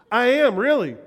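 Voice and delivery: insistent. Retold or imitated. Insisting he is from Spearfish.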